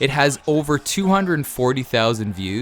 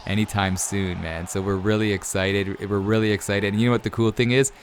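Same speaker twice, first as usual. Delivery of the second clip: real emotion, slowing and dropping away quietly; choked up; 2 semitones lower, 4 dB quieter than usual. Real, not acted. Expectant father telling viewers about his firstborn, choked up. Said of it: "I'm gonna start crying".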